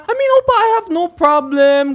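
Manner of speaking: mock sweet reassurance to Opa; a hint of Juwon's voice; imitating Juwon. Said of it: "Tapos sabi niya".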